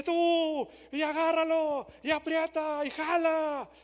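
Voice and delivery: loud, high frantic yells of sailors in a storm; sailors shouting. Retold or imitated. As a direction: bark the orders like panicked sailors over the wind. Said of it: "Yo imagino a los marineros gritando".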